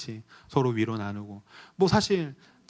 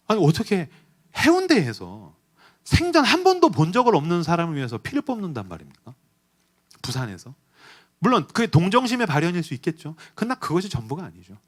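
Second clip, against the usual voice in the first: rising, louder, impassioned preacher's appeal; fervent preaching; 6 semitones higher, 6 dB louder than usual. Acted. Pastor urging his congregation, building into fervent, louder preaching. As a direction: press the question home to the congregation.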